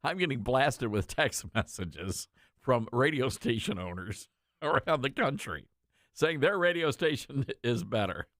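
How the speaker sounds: chuckling while telling the news; amused by the flood of texts; laughing through it. Real, not acted. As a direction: laugh between words. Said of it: "The reason I'm laughing".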